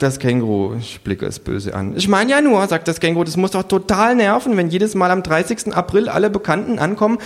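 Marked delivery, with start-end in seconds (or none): 2.0-7.2 much higher, loud cheeky creature voice; innocent-sounding needling; kangaroo. Acted. The kangaroo teases the hostess, high and cheeky.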